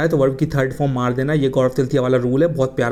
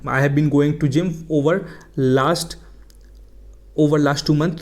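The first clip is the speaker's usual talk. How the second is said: slow, deliberate example sentence; slow model sentence; much slower than usual. Shown as a demonstration. Teacher dictating the wrong example slowly to students. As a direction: read each word slowly like a teacher. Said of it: "ऐसा बोलूँगा".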